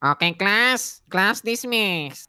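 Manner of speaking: slow, drawn-out class dismissal; teacher announcing. Acted.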